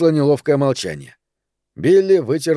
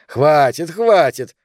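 protesting; 3 semitones higher, 3 dB louder, slower than usual. Acted. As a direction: cut him off, enough. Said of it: "запротестовал Тони".

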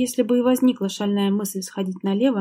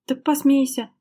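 higher mock-challenging exclamation; exclaimed; 5 semitones higher than usual. Wife exclaiming bitterly at husband. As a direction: dare him to laugh. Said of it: "воскликнула Лера".

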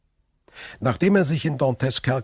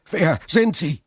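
much higher and louder urgent question; eager question; 9 semitones higher, 6 dB louder than usual. A narrator's reading. Prisoner urgently asks the hidden stranger, loud and high. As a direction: demand it breathlessly. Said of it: "vor Schreck die Haare".

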